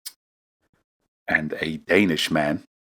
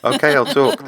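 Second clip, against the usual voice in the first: terrified captive; 8 semitones higher, 6 dB louder than usual. Retold or imitated. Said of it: "I'm gonna kill you".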